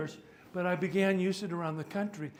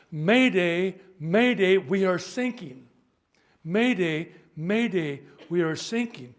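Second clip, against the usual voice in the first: loud, urgent distress shout; panicked mayday call; 2 semitones higher, 10 dB louder, slower than usual. Acted. Sinking ship yells to the Coast Guard, loud panicked mayday. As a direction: yell for help as the ship goes down.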